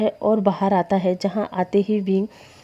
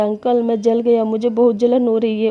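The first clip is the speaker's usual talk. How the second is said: mild pained cry. Acted. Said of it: "विंग चिल्ला रहा था".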